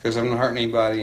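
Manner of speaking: mildly mocking a confident young man; indignant attitude. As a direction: brush off the cop, fast and sure of himself. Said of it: "he had that kind of attitude".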